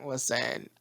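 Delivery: laid-back, laughing careless dude; careless surfer voice. Retold or imitated. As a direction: shrug it all off, laughing. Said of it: "Mercury is like".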